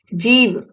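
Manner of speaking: जीव drawn out slowly; ध्वनि दिखाते हुए. Shown as a demonstration. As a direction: stretch जीव to show its sound. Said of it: "आ का साउंड आ रहा है". (जीव को धीरे, खींचकर बोलें)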